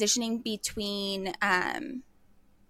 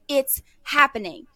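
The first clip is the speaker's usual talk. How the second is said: slightly raised, thrilled retelling; retold excitement; 5 semitones higher than usual. Daughter hoping her dad is coming through, retold excitement. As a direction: relive the thrill, pitched up but contained. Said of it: "I was so excited".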